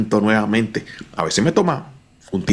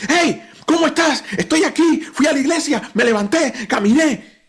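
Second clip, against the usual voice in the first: much higher, bright and eager retelling; excited friend; 12 semitones higher than usual. Retold or imitated. Friend on the phone after healing, excited and high. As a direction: bounce up like a man who got well. Recovered friend calling back happy.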